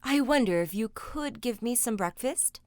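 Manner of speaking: put-on polite boy. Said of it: "he said quite politely".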